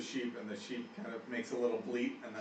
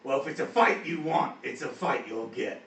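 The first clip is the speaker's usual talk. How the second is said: orc challenge; 6 dB louder than usual. Acted. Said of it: "he says".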